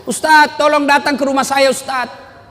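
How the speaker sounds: high-pitched mock crying woman; imitating a distraught woman's wail; imitated tearful plea. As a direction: beg for help as if weeping. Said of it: "ada ibu-ibu menangis".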